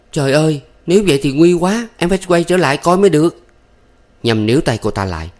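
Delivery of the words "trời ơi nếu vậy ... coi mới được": anxious, fast, higher and louder; panicked cry. A narrator's reading. Thắm fearing her husband's suicide, panicked cry. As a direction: cry out in alarm, rushing. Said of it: "Thắm kêu lên".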